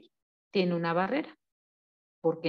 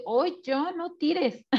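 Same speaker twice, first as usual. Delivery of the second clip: scolding mother; 5 semitones higher than usual. Retold or imitated. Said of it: "la mamá dice".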